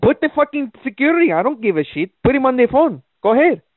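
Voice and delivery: high, defiant yelling at her; angry dare. Pretend. Caller daring the woman to fetch security, high and defiant.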